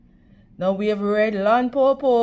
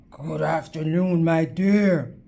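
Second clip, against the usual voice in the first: a lightly lowered, smooth wolf voice; wolf sweet-talking the girl, a touch lower; sly wolf; 5 semitones lower than usual. Acted. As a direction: purr it like a charming predator. Wolf greets Red Riding Hood.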